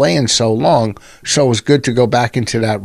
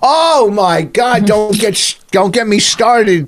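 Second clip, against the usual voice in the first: drawn-out, higher-pitched exasperation; exasperated; 6 semitones higher, slower than usual. Real, not acted. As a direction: groan it out, long and high. Exasperated outburst at the topic.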